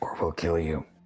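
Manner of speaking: voiced stage whisper. Player voicing Pierce, who leans down to threaten someone: half-whispering. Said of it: "Pierce leans down and he whispers".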